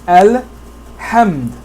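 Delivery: "al-hamd" slowly, with a clear opening "al"; alif pronounced. Shown as a demonstration. Teacher showing a sentence-initial alif, slowly pronounced. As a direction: sound the initial a of "al-hamd" in full. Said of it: "Here the alif is pronounced".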